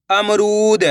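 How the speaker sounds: syllables joined into one slow word; blended word. Shown as a demonstration. Teacher joining the syllables for learners, slowly blended. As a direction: read it as one whole, stretched word. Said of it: "तो मिलके बन जाएगा".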